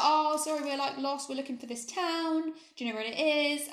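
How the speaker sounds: a hint of a sweet lost tourist. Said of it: "tourist voice".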